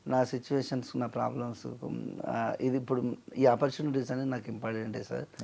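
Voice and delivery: mildly deferential, hesitant negotiation; polite request. Acted. Musician asking a producer for fair pay, politely. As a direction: ask respectfully, pausing to choose words. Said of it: "అని మర్యాదగా చెప్తే".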